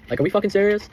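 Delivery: pitched high in disbelief; rising disbelief at her words; mock incredulous outburst. To his girlfriend, high incredulous outrage. Retold angry reply to girlfriend.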